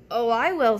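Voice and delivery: loud, eager "Oh, I will"; eager goose. Acted. Goose eagerly volunteers to eat the bread, loud and keen. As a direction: jump at the chance to eat.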